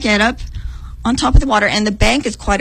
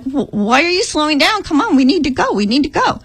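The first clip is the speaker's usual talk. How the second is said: urging; 5 semitones higher than usual. Retold or imitated. Urging falling-back runners on.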